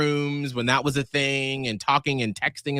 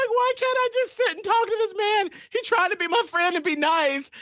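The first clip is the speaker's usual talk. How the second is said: mock despairing self-talk. Retold self-scolding.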